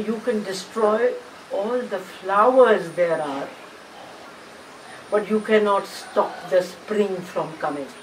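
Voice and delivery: slow, measured challenge; quoted challenge. Retold or imitated. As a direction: quote it slowly as a challenge to the world. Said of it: "challenge कर रही थी जमाने को". (ज़माने को धीमी, नपी-तुली चुनौती)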